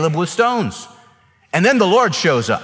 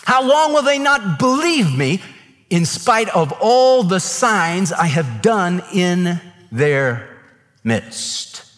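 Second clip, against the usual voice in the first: grieved, pleading God; 3 semitones higher, slower than usual. Retold or imitated. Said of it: "He was angry with them".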